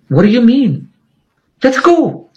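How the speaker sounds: high-pitched, insistent mock stranger; urging, surprised. Stranger on the bridge urging Stan to leave, high and insistent.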